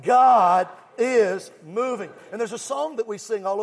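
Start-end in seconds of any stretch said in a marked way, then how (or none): 0.0-2.1 loud, slow shouted declaration. Shown as a demonstration. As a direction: shout it for the crowd to echo. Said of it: "Can you shout that real loud?".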